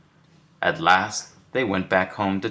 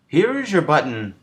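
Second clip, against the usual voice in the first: Frog excited; 10 semitones higher than usual. A narrator's reading. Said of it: "said Frog".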